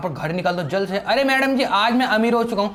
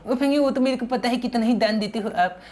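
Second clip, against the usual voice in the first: childish cartoon-boy voice, a little higher; Sinchan voice; 4 semitones higher than usual. Sinchan teasing his buddy Franky, in a childish cartoon voice. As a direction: play the cheeky cartoon kid.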